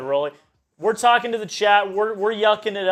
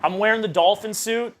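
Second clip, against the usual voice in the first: fired up; 4 semitones higher, 3 dB louder than usual. Real, not acted. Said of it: "I'm fired up".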